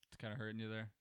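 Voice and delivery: lightly voiced Hank Hill, soft and low; a hint of Hank Hill advice; Hank Hill impression. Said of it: "almost like a Hank Hill impression".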